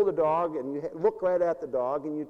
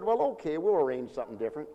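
sweetly through gritted teeth; faster than usual. Retold or imitated. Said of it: "But I said sweetly, while gritting my teeth".

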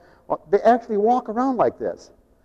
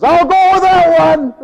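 high, slow, chuckling agreement; amused laughing answer; laughing reply; 12 semitones higher, 9 dB louder, slower than usual. Retold or imitated.

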